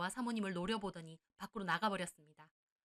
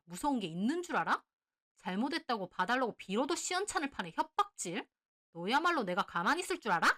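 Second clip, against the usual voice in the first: loud, furious confrontation; shouting in fury; 4 dB louder than usual. Acted. Wife yelling at her husband's mistress, furious shout. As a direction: yell back at the mistress, fed up. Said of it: "제가 악다구니를 쓰며 소리를 지르자".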